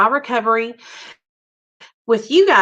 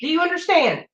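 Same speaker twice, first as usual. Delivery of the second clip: stern scolding; 7 semitones higher than usual. Real, not acted. Mother scolding son.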